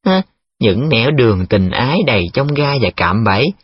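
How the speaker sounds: mock theatrical echo; lightly hammed-up opera-stage delivery; cải lương melodrama. Chuyên mocking Nhiệm's flowery promise, cải lương style. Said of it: "y chang như mấy tuồng cải lương".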